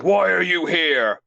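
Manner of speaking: acted exaggerated questioning; mock bewildered demand. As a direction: stretch it out in mock disbelief. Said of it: "It's just like".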